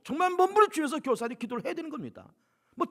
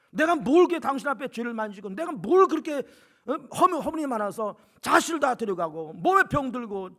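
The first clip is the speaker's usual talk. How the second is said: Job protesting. Retold or imitated. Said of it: "욥이 하나님 앞에 따지는 거예요".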